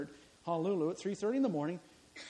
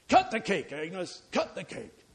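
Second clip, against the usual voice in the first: gruff urging; 7 dB louder, slower than usual. Acted. Cook urging Agnes again.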